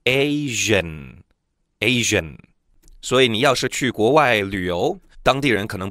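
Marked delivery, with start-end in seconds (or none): 0.0-2.4 Asian said slowly and clearly twice, each syllable spelled out; teacher's model word. Shown as a demonstration. Teacher to students, slow careful model of the word. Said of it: "亚洲人英文就叫Asian".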